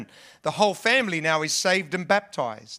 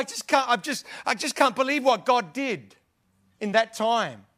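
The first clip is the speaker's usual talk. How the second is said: higher, breathless with wonder; amazed Paul; 4 semitones higher than usual. Retold or imitated. Paul voiced, amazed at church.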